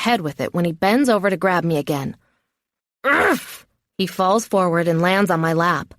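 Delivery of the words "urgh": high grunt of impact; effort grunt. A narrator's reading. Captive smacking attacker on the head, effort grunt. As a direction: grunt as the blow lands.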